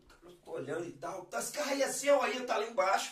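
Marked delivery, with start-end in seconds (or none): 1.2-3.1 raised-pitch mock yell; retold shouting. Bystanders warning the driver about his runaway car, mock shouting. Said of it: "tô vendo o pessoal gritando".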